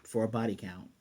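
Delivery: flat robotic monotone. Retold or imitated. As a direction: speak it like a cold robot. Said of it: "very robotic voice".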